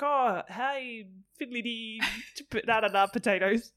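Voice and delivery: hammed-up nonsense Irish, lilting; badly faked Irish babble; mock Irish accent. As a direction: do a silly stage-Irish greeting. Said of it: "I think she was Irish or something".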